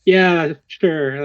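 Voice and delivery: hesitant, uneasy humoring; mildly nervous agreement. Acted. Player acting out humor with slight fear at a friend's power, mildly nervous. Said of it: "with a slight bit of, like, fear".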